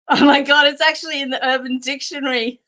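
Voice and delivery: words breaking into real laughter; can't hold back the giggles as you say it; laughing through the line. Real, not acted. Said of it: "I can't stop laughing".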